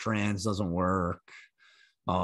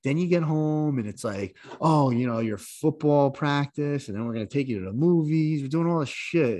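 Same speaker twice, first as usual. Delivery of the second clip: fast, higher ranting dad; exasperated dad, pitched up; mock exasperated rant; 5 semitones higher than usual. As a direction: vent hotly about all we do for him. Ranting about spoiling son.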